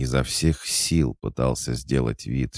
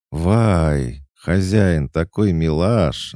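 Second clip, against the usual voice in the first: high, louder squeal of delight, drawn out; 6 semitones higher, 6 dB louder, much slower than usual. A narrator's reading. Cat goddess delighted by her owner's gift, gushing. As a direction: gush happily over your sweet owner. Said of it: "обрадовалась Устинья".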